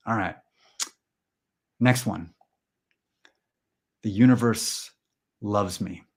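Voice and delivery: slow, spaced-out mantra voice; measured meditation-leader delivery; mock affirmation. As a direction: recite it calmly, pausing midway. Leads a mock mantra exercise.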